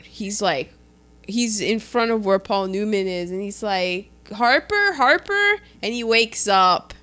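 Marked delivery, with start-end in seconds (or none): 4.3-5.6 higher-pitched, questioning name call; retold attempt to wake someone; calling to rouse. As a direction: call the name as if waking him. Rousing a knocked-out man.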